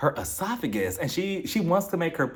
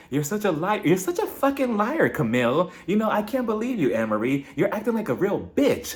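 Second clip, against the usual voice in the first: imitating a heated, shrieking insult; hammed-up rage, spiking high; retold fight, played up high; mock angry yell; 5 semitones higher than usual. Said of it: "she takes it up a notch".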